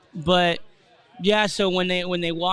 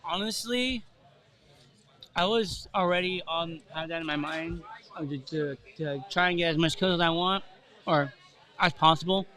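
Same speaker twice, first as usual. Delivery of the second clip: chewing gum. Real, not acted. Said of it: "do you have gum in your mouth right now?".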